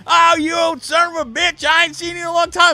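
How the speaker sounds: put-on high, fast, loud drunken redneck; drunk redneck hollering. Imitating a drunk redneck answering an angry driver, hollering. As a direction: whoop it out like a boisterous drunk. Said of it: "this drunk-ass, shirtless redneck".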